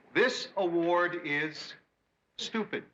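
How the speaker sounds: very slow, weighty delivery; slow deliberate speech. Shown as a demonstration. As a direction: draw out each word. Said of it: "try out his little speech on us".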